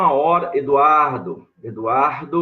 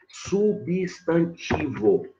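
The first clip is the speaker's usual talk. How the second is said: slow, spelled-out emphasis; 3 dB quieter, much slower than usual. Shown as a demonstration. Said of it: "Olha a classe gramatical aí".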